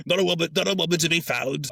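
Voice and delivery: hammed-up sailor moaning; Mowat lamenting. Mister Mowat moaning on the island, high mock lament. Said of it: "who's like".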